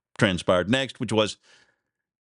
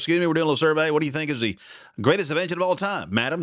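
mock eager street interviewer, pitched up; 5 semitones higher, faster than usual. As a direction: chipper survey guy asking a lady. Interviewer again, retold joke.

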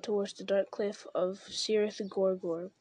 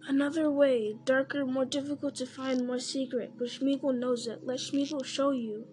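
Gollum coaxing; 2 semitones higher than usual. Acted. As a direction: coax and tempt, eager. Gollum offering another way.

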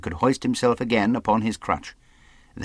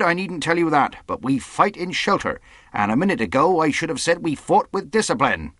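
higher, firm officer's address; rallying captain; 6 semitones higher than usual. Acted. Captain prepares his men for boarding, firm rallying voice. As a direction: steel the men for battle.

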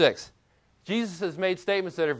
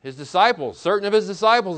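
louder punch on disciples; stress on disciples; 2 semitones higher, 6 dB louder than usual. Real, not acted. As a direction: hit disciples. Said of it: "Who's having a problem".

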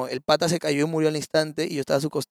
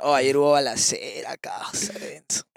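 hushed whisper; 4 semitones lower, 3 dB quieter, slower than usual. Real, not acted. Telling of a shootout, hushed.

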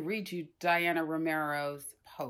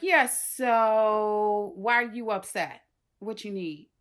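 Aunt Janice eager; 5 dB louder than usual. Retold or imitated. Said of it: "My Aunt Janice is like".

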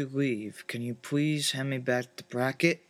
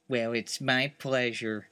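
voice modulator; 3 semitones lower than usual. Acted. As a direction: talk through a voice changer. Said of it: "test out my voice modulator".

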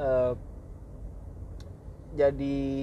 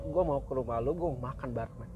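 kindly; 4 semitones lower, 5 dB quieter than usual. Retold or imitated. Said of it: "dengan secara baik-baik".

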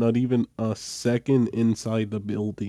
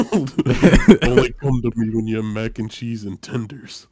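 put-on kid shooing mom; 6 dB louder than usual. Kid voicing rejecting his mom.

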